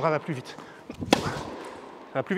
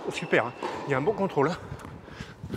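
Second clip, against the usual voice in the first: panting between words after a rally; breathless, catching air; out of breath; 5 dB quieter than usual. Real, not acted. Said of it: "j'arrive pas à respirer".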